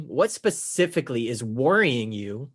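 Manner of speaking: slow question leaning hard on "worrying"; stress on WORRYING. Shown as a demonstration. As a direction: draw out and emphasize "worrying". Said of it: "I emphasize worrying because the word worried above".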